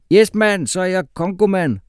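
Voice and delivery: loud, high, cheering shout. A narrator's reading. Umfufu shouts in triumph to the class. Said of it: "råbte Umfufu".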